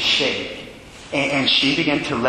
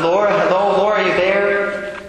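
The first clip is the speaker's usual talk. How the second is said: calling her name a bit louder and higher; a little louder; 5 semitones higher than usual. Retold or imitated. Priest calling to an unresponsive old woman, a little louder. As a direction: raise the voice to reach a dying woman. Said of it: "So I said a little loud".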